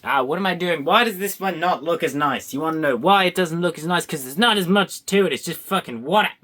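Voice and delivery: loud put-on voice; silly loud voice. Real, not acted. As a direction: talk big and goofy. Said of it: "I'm doing the voice again".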